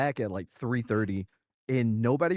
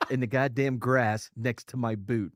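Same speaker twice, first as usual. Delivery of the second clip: slow, loud, laughing through the words; retelling it while cracking up; laughing disbelief; 8 dB louder, slower than usual. Retold or imitated. Soldier telling the squad what's by his boot, laughing loud and slow. Soldier reports grisly find.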